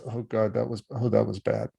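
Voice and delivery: soft, sorry-for-yourself lament; victim-wise self-pity. Shown as a demonstration. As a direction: moan it as the poor victim. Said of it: "victim-wise".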